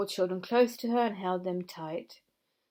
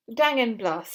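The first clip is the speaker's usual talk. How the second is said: grumpy curse; 3 semitones higher, 7 dB louder than usual. A narrator's reading.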